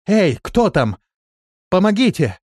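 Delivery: high, loud, desperate call from the well; a woman trapped in a well calls out desperately; desperate cry for help. A narrator's reading. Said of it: "отчаянный женский голос".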